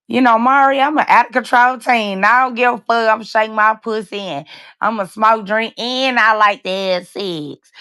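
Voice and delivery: put-on reading her own old wild post aloud as a brash teen; mock wild teen. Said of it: "That's some shit I posted".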